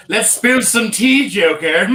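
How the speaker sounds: slow, drawn-out gossipy tease; playful teasing. Real, not acted. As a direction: relish the gossip.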